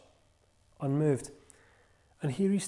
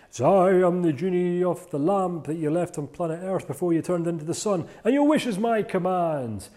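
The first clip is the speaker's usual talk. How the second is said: genie voice; 4 semitones higher, 5 dB louder than usual. Acted. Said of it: "Out pops the genie".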